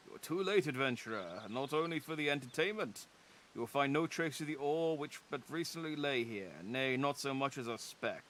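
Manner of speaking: a hint of a smug gloating rival; lightly voiced rival. Rival mocking the adventurer for arriving too late, mildly smug. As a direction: tease the latecomer lightly.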